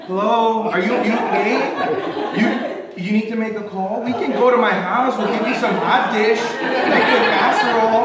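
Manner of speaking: loud, high, over-helpful Midwesterner; friendly calling out. Acted. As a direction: call out eagerly to check on a stranger. Acting overly kind Midwesterner calling out.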